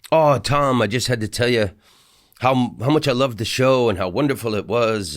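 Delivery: lightly attempted Irish accent, effusive fan; poor Irish accent. Friendly Irish guy bursting into the dressing room to praise, weak Irish accent. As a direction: gush with a half-hearted Irish lilt. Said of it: "I don't do good accents".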